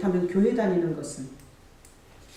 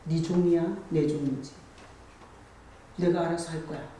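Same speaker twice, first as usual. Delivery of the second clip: voicing the Lord; 4 semitones lower, 5 dB quieter than usual. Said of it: "그럼 주님께서".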